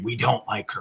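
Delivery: softly voiced mock whisper; imitated whisper. Quoting a male EVP caught on tour, in a soft imitated whisper. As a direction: drop the volume to imitate a whispering spirit. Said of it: "a male whispering".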